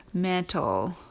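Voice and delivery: metal with a weak schwa in the last syllable; metal, let the ending go to uh. Shown as a demonstration. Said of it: "You hear the uh in there".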